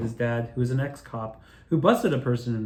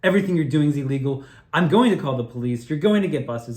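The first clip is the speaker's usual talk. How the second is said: mock yelling; 4 dB louder than usual. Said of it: "I had started screaming at them".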